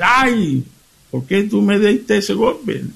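high, pained husband's cry; husband's startled cry. Retold or imitated. Husband struck by wife's frying pan, high pained cry. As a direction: yelp it like a man just hit with a pan.

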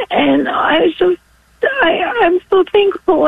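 crying. Real, not acted. Caller crying about her child.

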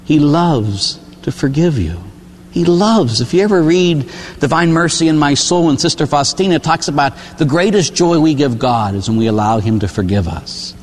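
normal talking voice

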